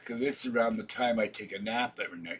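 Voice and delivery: talking through a yawn. Real, not acted. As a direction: yawn while you say it. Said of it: "Excuse me for yawning".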